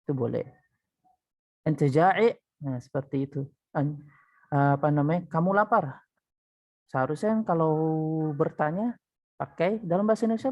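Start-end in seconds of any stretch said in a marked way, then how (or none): 1.6-2.3 "Anta ja'i" rising on ja'i; questioning intonation. Shown as a demonstration. Teacher showing a question without particle, questioning intonation. 5.3-6.0 "Kamu lapar" lifted as a question; questioning intonation. Shown as a demonstration. Teacher showing an everyday Indonesian question, questioning intonation. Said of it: "itu udah intonasi bertanya".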